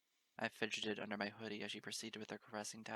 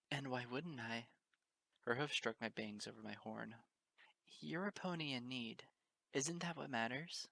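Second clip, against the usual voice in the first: tender motherly mare; 2 semitones higher than usual. Acted. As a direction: gently coax a frightened guest.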